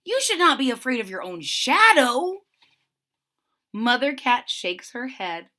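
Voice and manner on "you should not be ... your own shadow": kindly. A narrator's reading. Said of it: "Herbie says kindly".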